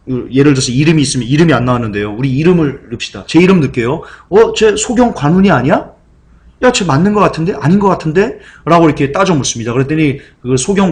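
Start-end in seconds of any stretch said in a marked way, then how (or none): 4.3-8.4 higher, bickering guesses; puzzled onlookers. Retold or imitated. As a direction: toss the question back and forth. Crowd arguing about blind man.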